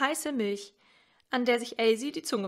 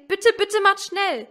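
higher, louder desperate wail; a trapped child begging harder, higher and louder; 9 semitones higher, 9 dB louder than usual. Acted. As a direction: beg with everything, both bittes pleading. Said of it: "Oben jammerten Mutter und Elsie".

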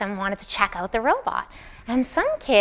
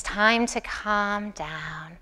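falling tone; 4 semitones lower, 9 dB quieter, much slower than usual. Shown as a demonstration. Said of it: "They use a falling tone".

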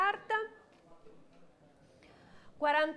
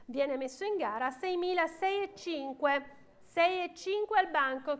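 brisk auction calling; auctioneer. Real, not acted. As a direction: rattle off the bids like an auctioneer. Auction bidding calls. (banditore d'asta)

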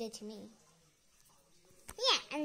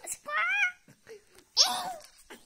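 shrill high bird squawk; parrot squawk; 13 semitones higher, 5 dB louder than usual. Acted. Bird sister squawks at speaker.

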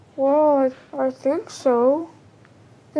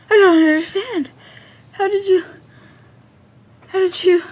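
bewildered disbelief; 5 semitones higher, 4 dB louder than usual. Acted. Mario stunned meeting Mister L.

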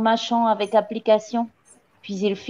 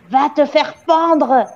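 slow, raised angry shout; howled curse; 5 semitones higher, 4 dB louder, slower than usual. A narrator's reading. Le Gourdin cursing the gamin before storming out, howled. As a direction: howl it out, stretching the words. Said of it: "hurla mademoiselle Le Gourdin".

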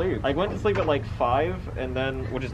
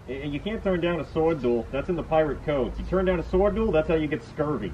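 raised-pitch character voice; pirate-code stickler, insistent; 6 semitones higher than usual. Acted. Helper warns dad about the pirate code, mildly insistent and higher. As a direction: lay down the pirate rules.

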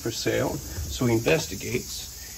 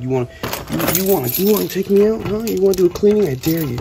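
voicing the snake; 6 semitones higher, 4 dB louder, faster than usual. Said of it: "She's like".

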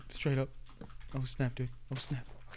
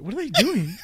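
slightly raised, puzzled question; 5 semitones higher than usual. Real, not acted. Gamer watching enemies from hiding, mildly puzzled. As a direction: ask it in mild surprise.

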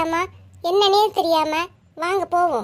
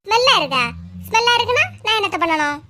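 indignant retort; 4 semitones higher than usual. Acted. Quarrel, Lakshmi retorts.

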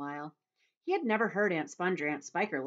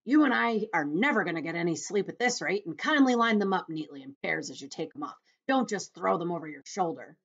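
louder, lightly exasperated centipede; nagging centipede; 6 dB louder than usual. Acted. Centipede instructing James about boots, mildly exasperated. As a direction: nag on loudly.

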